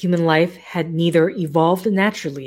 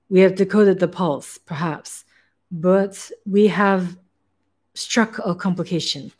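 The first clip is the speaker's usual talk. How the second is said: put-on light German accent for the hairless scientist; a hint of a German scientist's accent; German accent, lightly worn; 2 semitones higher than usual. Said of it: "I don't know why this accent".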